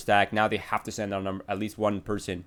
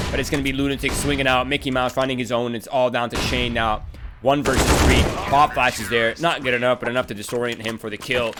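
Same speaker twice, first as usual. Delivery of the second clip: energetic esports call, slightly raised; live play-by-play; 3 semitones higher, 5 dB louder than usual. Real, not acted. Caster calls one versus three to viewers, live play-by-play. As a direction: keep calling the action with drive.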